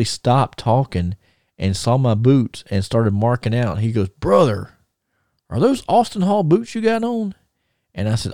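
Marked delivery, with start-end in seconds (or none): 4.1-7.4 much higher, thrilled retold question; excited Magnum. Magnum to the teller, spotting his boots, thrilled and high. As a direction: jump up high, marking out over the boots.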